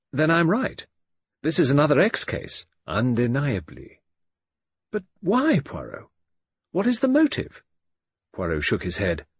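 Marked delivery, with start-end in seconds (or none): 0.1-7.6 higher, pressing, impatient; eager questions. A narrator's reading. Hastings presses Poirot for the motive, eager and high. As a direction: push him for the answer.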